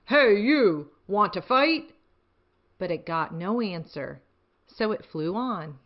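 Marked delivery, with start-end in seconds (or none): 0.0-1.9 loud, bossy challenge; picking a fight with a gorilla, loud and grouchy; grouchy ladybug. Acted. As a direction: call out the bigger animal, louder. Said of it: "the grouchy ladybug said".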